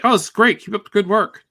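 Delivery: high, loud mock-enthusiastic praise; imitating enthusiastic praise. Comic artist retelling a pro's praise of his drawings, mock enthusiastic. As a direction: play up the famous artist's big approval.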